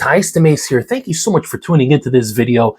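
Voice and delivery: scratchy, worn-out voice from a cold; hoarse voice. Real, not acted. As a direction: talk through a shot, hoarse voice. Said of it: "my voice is shot yet again".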